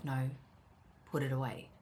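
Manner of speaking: a quiet no-nonsense reminder; calm firm tone. Retold or imitated. Inner voice stopping her from leaving the vacuum, calm firm. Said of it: "And it's calm".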